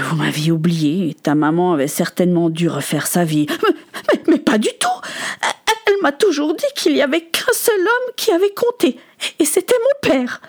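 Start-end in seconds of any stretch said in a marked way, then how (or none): 3.5-10.4 high, stammering objection; agitated protest. Acted. Son defends his mother's word to his father, agitated.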